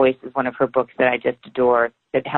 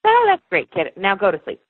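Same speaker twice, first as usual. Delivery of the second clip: brushing-off mom voice; 5 semitones higher than usual. Retold or imitated. Mom soothing child at bedtime.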